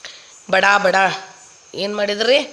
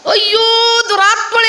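mock exasperated outcry; 12 semitones higher, 4 dB louder than usual. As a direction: curse her in comic horror. Man playing dead curses wife inwardly. (ಹಾಸ್ಯದ ಹತಾಶೆಯ ಉದ್ಗಾರ)

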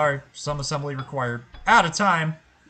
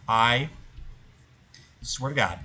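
exasperated outburst; 5 dB louder than usual. Real, not acted. Losing patience with the game.

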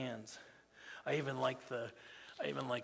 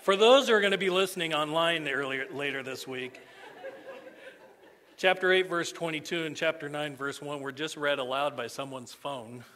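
laughing through the words, louder; 8 dB louder than usual. Real, not acted. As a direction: chuckle at the phone mishap. Laughing after phone read aloud.

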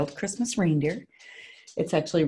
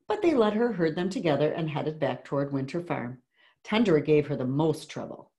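put-on measured read-aloud to children; story narration. A narrator's reading. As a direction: read a picture book to a class, clearly. Reads picture book aloud.

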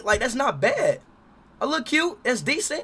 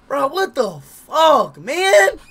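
angry; 7 semitones higher, 12 dB louder, much slower than usual. Real, not acted. Angry about paying.

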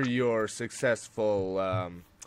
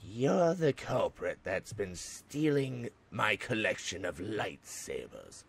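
menacing villain voice; 6 dB quieter than usual. Acted. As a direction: threaten the thief coldly. Voicing a character in his story.

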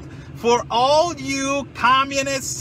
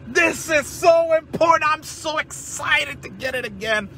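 mock excitement; 6 semitones higher than usual. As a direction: shout it in fake awe. Sarcastic gushing over the book.

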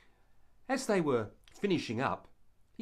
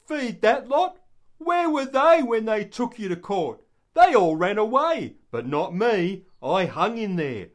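much higher, louder, bitter complaint; indignant Peter; 7 semitones higher, 10 dB louder than usual. Acted. Peter resenting the deserters, bitter and indignant. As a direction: boast that you stayed when they ran. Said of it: "I have a feeling Peter thought".

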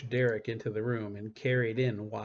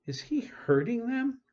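alarmed; 13 semitones higher, 5 dB louder than usual. A narrator's reading. Panicked question in the dark room.

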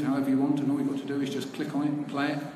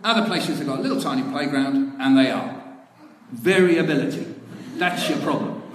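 louder, higher, self-important PE-man voice; hammed-up minister Vernon; 3 semitones higher, 5 dB louder than usual. Minister Vernon explaining variability to the author, loud and pompous. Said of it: "and then Vernon said".

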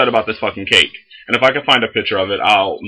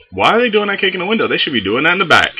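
incredulous; 8 semitones higher, faster than usual. Retold or imitated. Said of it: "I'm like".

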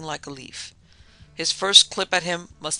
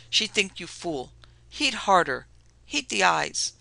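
shouting French Canadian; 3 semitones higher, slower than usual. Acted. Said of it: "he shouted".

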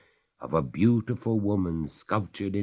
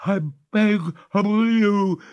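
high, slow, louder freezing ghost; 7 dB louder, slower than usual. Acted. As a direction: complain through the cold, slow and high. Ghost's final plea.

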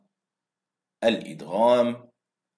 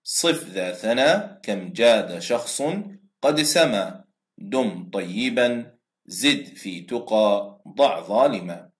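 slow verse recital; slower than usual. Shown as a demonstration. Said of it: "مجموعة في أوائل بيت الشعر الآتي".

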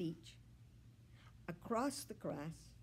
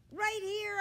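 higher, louder call; calling back; 13 semitones higher, 7 dB louder than usual. A narrator's reading. Dog answering Kayla from afar, called reply. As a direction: call back so she can find you. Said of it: "I call back".

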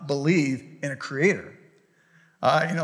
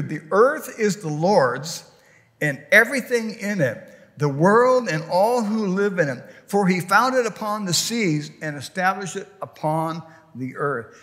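scripture reading. Acted. Reading Psalm twenty-four aloud.

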